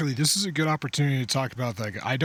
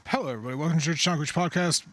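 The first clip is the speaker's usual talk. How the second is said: podcast intro; 5 semitones higher, faster than usual. Pretend. Host launches into podcast intro.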